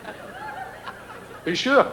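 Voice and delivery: very high, very slow incredulous query; ringmaster. Retold or imitated. Ringmaster asking the volunteer, very high drawn-out doubt. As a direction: stretch it out in disbelief.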